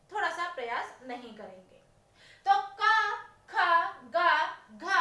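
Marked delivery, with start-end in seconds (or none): 2.8-4.9 क ख ग घ spoken apart, each from the throat; throat letters demo. Shown as a demonstration. Teacher has the class hear the throat in क ख ग घ. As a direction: give क, ख, ग, घ one by one with throat stress. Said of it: "अंग जब हम देखते हैं तो ये हो जाते हैं उच्चारण स्थान की दृष्टि से कंठ है".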